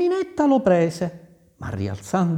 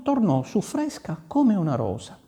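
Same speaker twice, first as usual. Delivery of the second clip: plain reading voice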